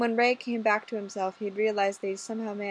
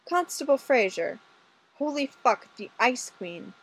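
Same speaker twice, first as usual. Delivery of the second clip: startled exclamation; 4 semitones higher than usual. Acted. Inspector bursting into the office, startled exclamation.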